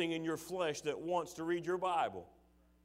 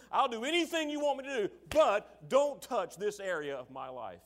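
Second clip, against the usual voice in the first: higher, louder pleading promise to God; 6 semitones higher, 6 dB louder than usual. Retold or imitated. Churchgoer bargaining with God, loud and pleading. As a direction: bargain with God, eager then stubborn. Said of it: "and you say".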